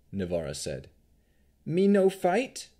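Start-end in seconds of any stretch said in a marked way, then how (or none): 1.6-2.7 high, slow, rising question; simple creature, high and loud; childlike golem. A narrator's reading. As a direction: ask slowly in a high golem voice.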